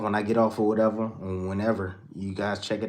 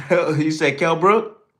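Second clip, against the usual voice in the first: surprised; 6 semitones higher, 6 dB louder, slower than usual. Real, not acted. Surprised at the chat comment.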